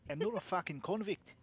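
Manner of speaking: loud mock-offended protest; fake indignation. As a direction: ham up the outrage. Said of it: "I love to fake being insulted".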